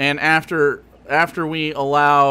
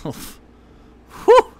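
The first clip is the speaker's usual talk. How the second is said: high cackling laugh then a sigh; burst of laughter; 4 dB louder than usual. Real, not acted. Streamer losing it at a chat joke, laughing hard. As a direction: break up laughing.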